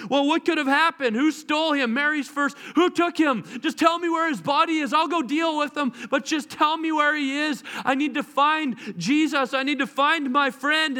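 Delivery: desperate, searching for her friend; anxious plea for the missing body; frantic searching. Acted. Mary frantic searching for Jesus' body.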